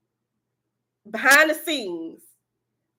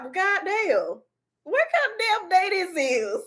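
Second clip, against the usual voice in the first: laughing exasperation; 7 semitones higher than usual. Retold or imitated. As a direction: drag it out in comic despair. Acted exasperated reply to doctor.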